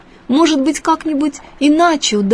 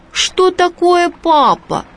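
curious fish; 9 semitones higher, slower than usual. A narrator's reading. Fish asks the boy.

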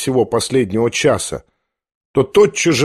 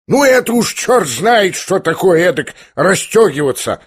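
yelled; 6 semitones higher than usual. A narrator's reading. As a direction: bellow it out, outraged. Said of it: "заорал Фердыщенко".

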